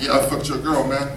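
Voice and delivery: cocky club dude thumping out boom boom; cocky party guy. Retold or imitated. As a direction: brag like a guy heading to the club. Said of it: "They be like".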